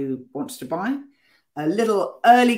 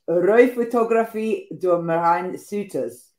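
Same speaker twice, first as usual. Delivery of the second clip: slow Dutch accent, a bit shaky; 3 dB louder, slower than usual. Real, not acted. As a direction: Dutch title read in a Dutch accent. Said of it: "Very bad Dutch accent".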